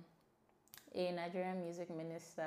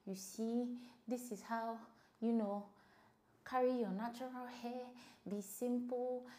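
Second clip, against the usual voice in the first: mock preachy advisor, higher; advice-giver voice; 5 semitones higher than usual. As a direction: parody a know-it-all lecturing. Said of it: "unsolicited advice about how".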